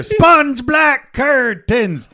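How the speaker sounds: slow, drawn-out ad slogan; infomercial voice. Pretend. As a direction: sell it like a late-night TV ad. Mock infomercial jingle.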